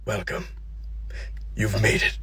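serene greeter. Acted. Man in a white suit welcomes the dead, softly. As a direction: greet them gently at heaven's gate. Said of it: "he goes".

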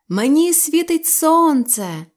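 high, loud, slow boast; excited shout. Acted. Sylvester running into the house, shouting high and excited. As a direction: burst in shouting with joy. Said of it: "закричав Сільвестр".

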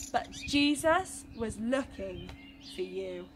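put-on lively storytelling for children; story narration. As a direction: tell it to the little ones with wonder. Reading a Bible story to children.

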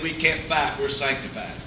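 mock-meek excuse from the timid church folk; meekly. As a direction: shrink back and mumble it meekly. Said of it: "they all very meekly said".

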